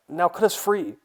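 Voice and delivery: loud, high, impatient order; pressing shout to a friend; urgent demand. Acted. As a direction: call out to be set free. Trapped Kyle demands release.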